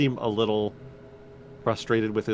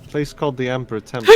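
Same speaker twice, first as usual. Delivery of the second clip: laughing; 3 semitones higher, 10 dB louder, faster than usual. Real, not acted. Table erupts at the name.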